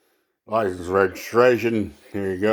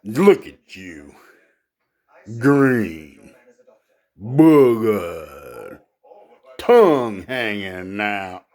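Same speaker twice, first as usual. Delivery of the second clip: drawn-out mock insults, louder on single words; proud lion; 4 dB louder, slower than usual. Proud lion insulting a frog on a lily pad, drawn-out scorn. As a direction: sneer each insult slowly as a pompous lion.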